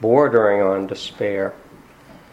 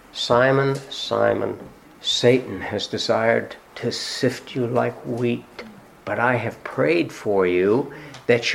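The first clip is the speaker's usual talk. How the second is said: tender Jesus; slower than usual. Acted. Jesus gently warning Peter before his denial, slow and tender. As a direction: speak it gently and slowly, like a promise.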